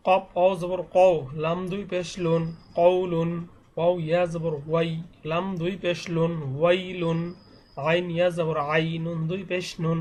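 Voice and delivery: level, rhythmic letter-by-letter chant; steady teacher's recitation on one note; Qaida spelling recitation. Shown as a demonstration. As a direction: spell each syllable evenly, then blend the word with long vowels drawn out. Spells out Arabic reading primer.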